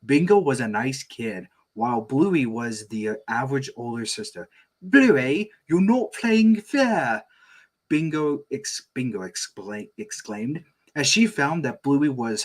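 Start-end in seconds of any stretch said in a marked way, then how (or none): 4.8-7.2 put-on high, slow whiny child; little kid voice. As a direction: whine it like a small girl.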